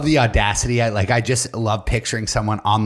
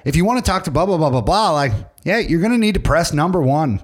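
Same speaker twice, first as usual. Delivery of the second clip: a cartoon-voice operator buddying up to the caller; friendly voiceover operator; 4 semitones higher than usual. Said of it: "get voiceover people that would do".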